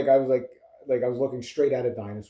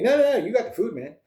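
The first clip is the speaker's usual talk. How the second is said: voicing the birds; 9 semitones higher, 3 dB louder than usual. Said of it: "they're like".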